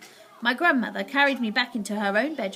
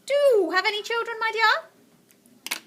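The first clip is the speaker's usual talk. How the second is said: higher, louder, falsely sweet; sly witch; 12 semitones higher, 5 dB louder, slower than usual. A narrator's reading. Witch probing grandmother with false sweetness. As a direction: purr the question slyly.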